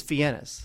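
FIENNES said "fee-EN-ess"; real-name pronunciation. Shown as a demonstration. Co-host checking the real name, Fiennes as fee-EN-ess. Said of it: "So his real name is".

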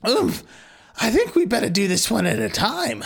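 high, goofy duck voice. Acted. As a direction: talk like a cartoon duck. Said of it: "ooh, I nailed that voice".

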